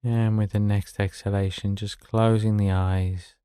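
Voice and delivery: calm, unhurried meditation guidance with long pauses; guided meditation. Acted. Meditation teacher settling listeners into the daily exercise, calm and unhurried. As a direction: ease them gently into stillness, leaving space between phrases.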